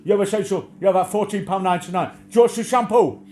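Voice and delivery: high, loud crone retort; mock crone, high and loud; imitating old crone. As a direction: bark it back like the batty shop lady. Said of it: "Like she said to me".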